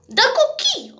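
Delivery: "De akkor ki" as a high exclaimed question; baffled outburst. Acted. Interrogator learning it was not him, baffled. Reacting to suspect's innocence.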